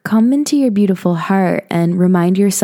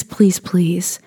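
whispered plea. Real, not acted. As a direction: breathe the pleading words.

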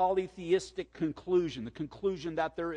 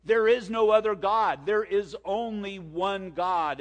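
loud, higher, insistent proclamation; God's emphatic declaration; 5 semitones higher, 6 dB louder than usual. Acted. Preacher voices God rebuking idolaters, loud and emphatic. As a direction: declare it forcefully, slowing into the last words. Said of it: "And God's saying".

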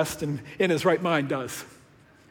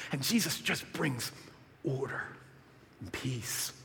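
softer and lower, hushed; soft and calm; 5 semitones lower, 12 dB quieter than usual. Real, not acted. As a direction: drop to a hush, much softer. Gentle close after chaos.

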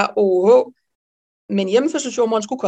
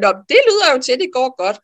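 amused colleague; 3 semitones higher, much faster than usual. Retold or imitated. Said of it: "morer sig vældigt".

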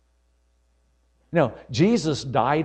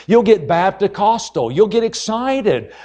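rousing preach; 5 semitones higher, 5 dB louder than usual. Acted. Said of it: "preacher rousing".

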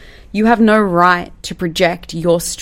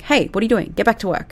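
higher-pitched mock telling-off; playful reprimand; 3 semitones higher than usual. Manager catching staff on Instagram, playfully firm. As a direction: call them back to work, half playful. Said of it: "I'm gonna be like".

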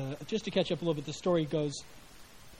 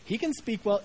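"can" leaned on with an exasperated, fed-up tone; God's weary sarcasm on "He can speak well"; a parent sighing, stress the word "can"; exasperated inflection; 4 semitones higher than usual. Shown as a demonstration. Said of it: "I say that with an inflection because I really think that's what God's attitude would have been".

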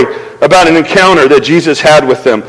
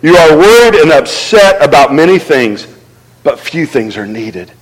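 gentle Jesus; 5 semitones lower than usual. Retold or imitated. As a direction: speak as a tender teacher. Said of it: "the Lord answered".

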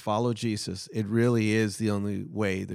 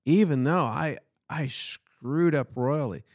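Peter amazed; 3 semitones higher than usual. Retold or imitated. Voicing Peter's amazed inner thought.

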